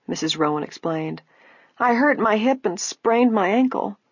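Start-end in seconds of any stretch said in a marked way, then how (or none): 1.8-4.0 put-on old woman voice. A narrator's reading.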